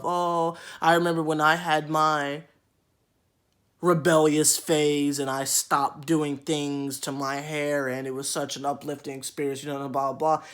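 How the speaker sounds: lightly mock a preachy elder; mock spiel. Loc wearer lecturing him about her phase, mock preachy. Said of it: "they go into this whole spiel".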